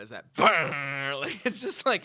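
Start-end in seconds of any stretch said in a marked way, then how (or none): 0.3-1.1 imitated sound effect. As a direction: voice the blunt alarm buzz. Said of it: "that's what he's talking about".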